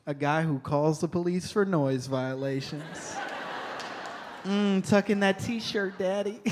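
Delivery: lightly voiced, slow come-on; a hint of sultry flirting, played for laughs.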